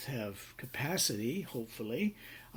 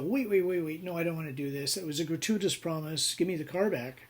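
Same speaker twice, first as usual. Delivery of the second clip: higher, louder mock panic; panicky backtracking; 5 semitones higher, 4 dB louder than usual. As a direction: scramble to take the promise back. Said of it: "And I go".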